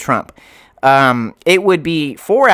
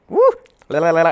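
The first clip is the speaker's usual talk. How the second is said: caffeinated whoop; 2 semitones higher, much faster than usual. Real, not acted. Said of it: "I'm wired on coffee".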